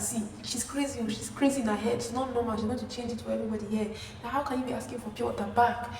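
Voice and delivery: imitated agitated roommate; acting crazy. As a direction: complain about someone to the whole room. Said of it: "this girl starts acting really crazy".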